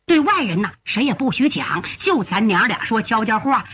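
confiding son. Acted. Son asking mother to keep his return secret, confiding. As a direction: confide carefully, keeping it between you two.

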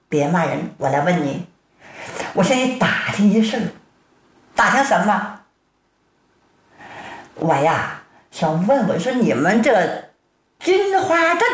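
put-on a big man turned meek, lowering his voice to a child; humble older man. Storyteller voices Tang Tieniu.

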